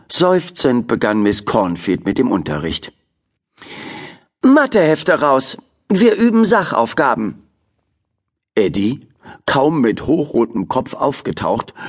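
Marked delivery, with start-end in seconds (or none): 4.4-7.4 strict teacher. Acted. Teacher starts lesson.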